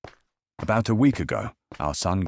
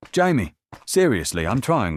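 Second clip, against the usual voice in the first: high, loud pleading exasperation; raised voice; 9 semitones higher, 8 dB louder than usual. Retold or imitated. Wife losing patience with the crying baby, loud and high. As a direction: call out, strained and fed up. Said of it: "raise her voice".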